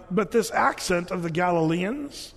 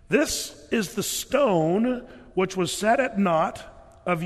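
solemn Bible reading; scripture reading. Acted. Reads scripture aloud in sermon.

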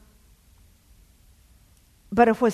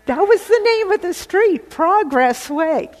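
excited emphasis; 11 semitones higher, 10 dB louder than usual. Real, not acted. Telling listeners the street name, excited emphasis. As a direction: land the name as a sign.

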